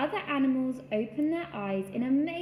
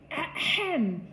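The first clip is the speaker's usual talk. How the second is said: deep growly voice; 4 semitones higher, 4 dB louder, slower than usual. A narrator's reading. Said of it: "in a deep, growly voice".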